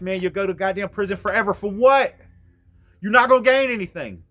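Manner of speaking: loud desperate pleading; yelling pleas to a friend with a gun; urgent pleading. Retold or imitated. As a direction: beg him to stand down.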